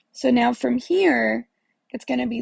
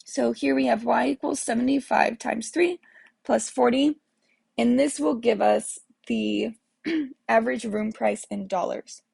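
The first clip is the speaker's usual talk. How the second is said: muffled. Real, not acted. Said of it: "I sound like I'm in a muffled microphone".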